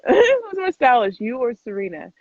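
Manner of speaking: rereading the question through a laugh. Real, not acted.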